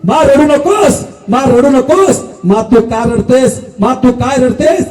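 slow, stretched appeal to a mother; declaimed, earnest comforting; consoling plea. Acted. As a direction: plead with her to stop crying, lingering on each phrase. King consoles the weeping mother.

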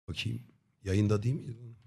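usual speaking voice

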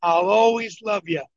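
"I'll always love you" said slowly, each word weighed; mean every word, slow and tender; tender, heartfelt. Retold or imitated. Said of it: "He said it like this".

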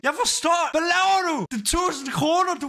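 high-pitched incredulous outburst; stunned disbelief. Real, not acted. Streamer to generous donor after going live, stunned. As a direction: demand answers, voice pitched right up. Overwhelmed by a thousand-kroner donation.

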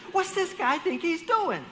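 high, loud road-rage shout; aggressive driver yelling. Retold or imitated. To a driver cutting in, high angry shout. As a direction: yell at the guy cutting in. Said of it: "and he's like".

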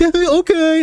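high, dopey agreeable okay; mocking his own gullible self; dim-witted okay. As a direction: play your own empty head nodding along. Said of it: "my fucking smooth brain was like".

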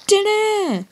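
high loud showman ta-da; mock ta-da. Gamer revealing potatoes, high loud showy ta-da. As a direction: present it with a flourish. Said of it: "I don't know why I said that".

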